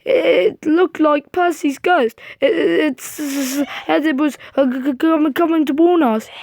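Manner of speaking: trembling, stammering fright; قل ذلك بصوت مرتجف خائف يتلعثم؛ stammer out the sighting, frightened; shaky scared voice. Acted. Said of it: "said Toby in a shaky voice".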